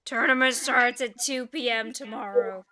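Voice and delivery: lightly voiced gruff goblin; a hint of a British goblin; small gruff voice. Goblin organizer giving the start time, mildly gruff. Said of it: "small, gruff voice".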